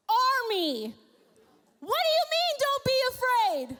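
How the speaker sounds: high, loud disbelief; the servant protesting his master's calm; incredulous outburst. Pretend.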